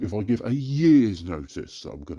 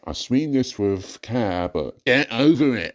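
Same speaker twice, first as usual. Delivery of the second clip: mocking commenters; 3 semitones higher, slower than usual. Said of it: "comments were going".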